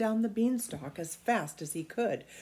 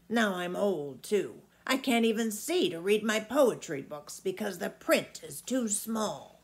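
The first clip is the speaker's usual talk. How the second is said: put-on a big old giant savouring the thought of food; an old giant relishing a juicy boy; 6 dB louder than usual. Old giant voiced in story.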